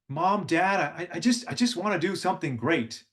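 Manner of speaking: hint of a film hero pleading with parents; lightly acted Hercules. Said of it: "and he's speaking".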